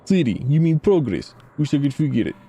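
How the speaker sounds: clipped, broken-English townsman; lightly voiced gruff local; terse local informant. Informant briefs the player about the ruined city, grim.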